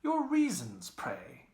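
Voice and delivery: high, loud mock-puzzled question; same puzzled tone. A narrator's reading. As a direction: press for reasons in mock wonder. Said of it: "in the same tone".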